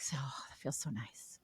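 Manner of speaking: soft sighing whisper of relief; blissful whisper. Retold or imitated. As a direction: breathe it out like sinking into calm. Voicing the brain relaxing.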